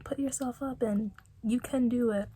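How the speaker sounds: rally a limp friend; encouraging voice. Retold or imitated. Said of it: "everyone was just trying to be like".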